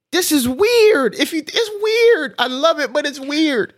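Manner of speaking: high, loud, laughing protest; drawn-out high amused complaint; giggly weird. Real, not acted. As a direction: squeal it through laughter. Laughing about partner being strange.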